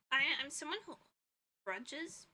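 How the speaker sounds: throat catching mid-sentence; rough, catching throat; frog in throat. Real, not acted. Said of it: "Sorry, frog in my throat".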